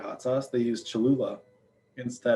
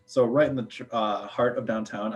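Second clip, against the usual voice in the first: tripping over the words, stammering; stuttering. Real, not acted. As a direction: stumble and restart mid-word. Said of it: "I don't know why I'm stuttering right now".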